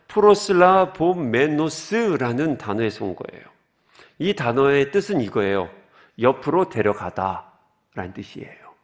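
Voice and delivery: normal talking voice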